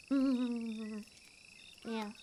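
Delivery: ordinary talk, nothing marked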